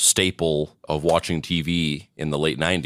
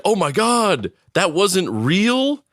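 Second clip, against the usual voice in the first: much higher, drawn-out feigned disbelief; mock shock; 12 semitones higher, slower than usual. Co-host mimicking someone fooled by the psychic scam, mock shock. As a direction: imitate a naive viewer's astonishment.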